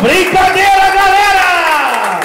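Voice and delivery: loud slow TV host shout; Faustão. Retold or imitated. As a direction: bellow like a TV host. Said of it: "E o Faustão".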